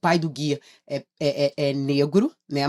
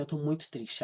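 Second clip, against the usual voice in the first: put-on sad child; 11 dB quieter than usual. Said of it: "ficou muito triste".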